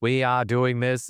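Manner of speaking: lightly mocked, stilted alien pronouncement; weird alien speech. Imitating the way the Arcturians talked in the book, lightly weird. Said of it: "the way they talked was weird".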